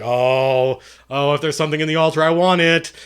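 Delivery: imitating a greedy, excited friend; loud, rising eagerness; eager player. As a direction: play the player who suddenly has to have it. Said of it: "he was like".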